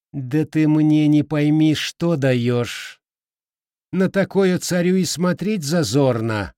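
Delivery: high, outraged swamp king; indignant creature almost squealing; indignant, nearly squealing. Acted. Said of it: "вознегодовал ржавейник, едва не сорвавшись в визг".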